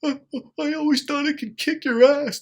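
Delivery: high, loud, tearful girlfriend impression; crying girlfriend voice. Ex-girlfriend wailing to him after falling, high, loud and tearful. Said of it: "She goes".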